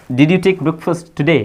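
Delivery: each word slow and distinct; slow model sentence. Shown as a demonstration. Teacher gives students the English question, slowly. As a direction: dictate the question clearly. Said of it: "तो कैसे बोलूँगा".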